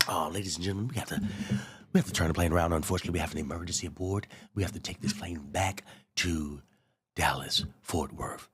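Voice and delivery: a hint of a calm pilot on the intercom; soft, quick cabin announcement. Pilot announcing the emergency turnaround, mildly mimicked. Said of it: "Pilot comes on".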